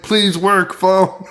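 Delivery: high-pitched mock desperate begging; pleading with phone. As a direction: implore the object in a put-on high voice. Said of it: "she's talking to the phone".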